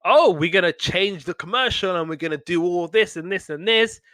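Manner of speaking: a hint of an eager executive; lightly voiced white producer. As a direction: rattle off plans as the ad man, lightly imitated. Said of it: "white guy comes along and he's like".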